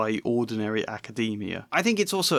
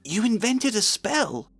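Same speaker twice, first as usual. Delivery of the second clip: astonished; 10 semitones higher, slower than usual. A narrator's reading. Hermione agape.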